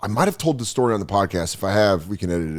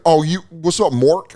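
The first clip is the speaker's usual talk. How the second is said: mock San Francisco accent; 5 semitones higher than usual. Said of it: "trying to talk in a San Francisco accent".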